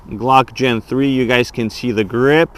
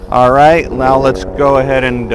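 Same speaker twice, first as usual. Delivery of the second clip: raised voice over noise; yelling over helicopter; 4 dB louder than usual. Real, not acted. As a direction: talk loud over rotor noise. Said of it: "sorry for the helicopter noise".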